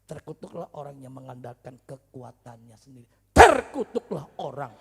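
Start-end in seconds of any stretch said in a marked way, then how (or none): 3.3-4.7 booming, drawn-out preacher's shout; sudden yell. Real, not acted. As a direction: explode on the first word. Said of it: "Kenapa saya teriak?".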